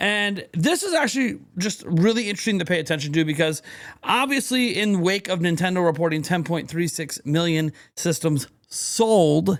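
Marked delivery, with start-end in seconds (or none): 8.7-9.6 leaning on the word sold. Host discussing console sales figures, stressing the word sold. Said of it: "I'm emphasizing the word sold".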